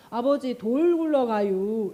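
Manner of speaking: drawn-out, unhurried Chungcheong warning; slow Chungcheong drawl. Retold or imitated. 느릿느릿한 충청도 말투. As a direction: stretch it out lazily even in danger. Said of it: "엄청 급박하게 얘기하겠죠".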